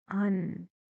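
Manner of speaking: UNHAPPY broken into un, hap, py with long pauses; syllable by syllable. Shown as a demonstration. Teacher counting syllables for students, "Unhappy" sounded out piece by piece.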